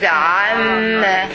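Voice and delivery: "عما" opened with a throaty ayn, then a long doubled m; clear ayn. Shown as a demonstration. Teacher correcting the first letter, "عما" slow with a clear ayn. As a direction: start "عما" on ayn, never a plain a, and draw it out. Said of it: "And it is not a".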